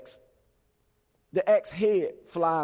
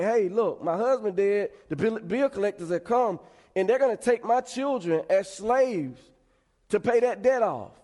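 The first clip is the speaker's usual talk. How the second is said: raised pitch, pleading as the widow; retold urgent plea; 4 semitones higher than usual. Widow tells Elisha about the bill collectors, urgent retold plea. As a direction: plead the case, lightly acted.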